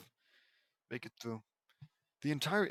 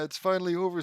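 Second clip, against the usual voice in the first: put-on slightly raised, louder British accent; 4 semitones higher, 6 dB louder, faster than usual. Reader voices Ginny after the battle in a British accent. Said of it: "also in a British accent".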